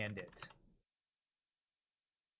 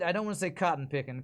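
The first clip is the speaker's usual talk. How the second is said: ordinary talk, nothing marked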